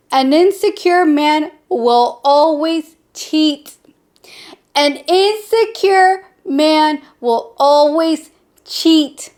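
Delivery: slow, deliberate delivery, punching "always"; stress on always. Real, not acted. Warning women about insecure men, slow stress on "always". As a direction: drag out "always" with heavy emphasis. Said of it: "Emphasis on the always".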